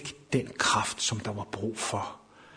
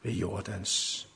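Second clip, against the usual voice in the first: hushed whisper; 3 semitones lower, 6 dB quieter, slower than usual. Acted. Hushed end of the reading.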